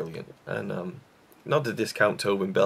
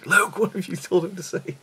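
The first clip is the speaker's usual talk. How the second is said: high, loud mock outrage; retold shocked scolding; imitating fiance; 11 semitones higher, 6 dB louder than usual. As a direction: put on a raised voice for a scandalised telling-off.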